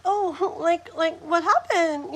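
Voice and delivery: acted friendly inquiry; still nice. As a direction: keep it nice while asking. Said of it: "it's still nice".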